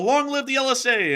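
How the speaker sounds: loud, high, hammed-up cheer; mock rally yell. Fan yelling the channel's slogan, loud and high. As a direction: shout it like a rally cry. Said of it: "or just yell".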